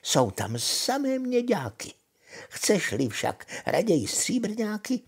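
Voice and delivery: put-on lively old witch giving instructions, pitch leaping high on key words; lehce hraná čarodějnice. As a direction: coax and reassure as the witch, swooping up high. (živě vemlouvavá čarodějnice)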